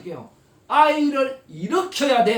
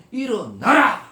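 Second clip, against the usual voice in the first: 1 commanding call; 7 dB louder, slower than usual. Acted. God's command shouted.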